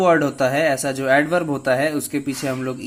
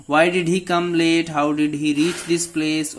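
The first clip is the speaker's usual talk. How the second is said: slow example read; much slower than usual. Shown as a demonstration. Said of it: "teacher reads example questions".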